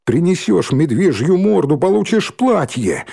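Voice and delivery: mocking, stretched-out call; taunting demand. A narrator's reading. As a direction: dangle the bargain in a high jeer. Bully sets a taunting condition.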